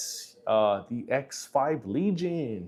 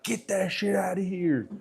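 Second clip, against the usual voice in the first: mock dismissive dad; 6 semitones higher than usual. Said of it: "I'm like".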